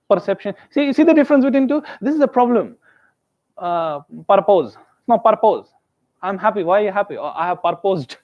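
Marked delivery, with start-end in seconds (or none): 4.3-5.7 "purpose" wrongly said as "par-pose"; mispronounced word. Shown as a demonstration. Teacher shows the problem, "purpose" as "par-pose". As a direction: end "purpose" on a long "pose". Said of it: "these are two different things".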